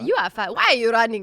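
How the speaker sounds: put-on Nigerian English; mock Nigerian accent. Guest echoing the running meme, Nigerian accent. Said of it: "I can't do a Nigerian anymore".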